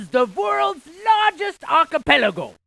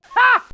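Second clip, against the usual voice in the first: short laugh; 11 semitones higher, 7 dB louder than usual. Acted. Quizmaster laughs at own pun.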